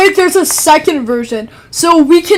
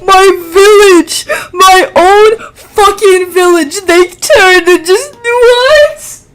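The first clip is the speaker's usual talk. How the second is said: wailing, mildly overdone grief; mock crying; 3 semitones higher, 4 dB louder than usual. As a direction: lament it as if in tears. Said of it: "That's why I'm crying".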